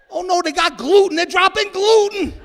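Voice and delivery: loud, high cry of alarm; mock panic. Acted alarm at a gluten attack.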